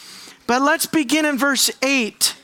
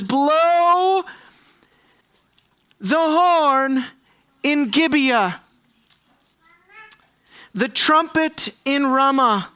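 slow, raised proclamation with long pauses; proclaimed scripture; 3 semitones higher, slower than usual. Acted. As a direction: sound it out like a herald's call. Reads God's call from Scripture.

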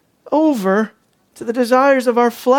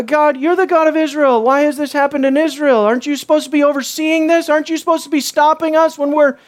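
accusing; 4 semitones higher than usual. Acted. Mimics Israel blaming God.

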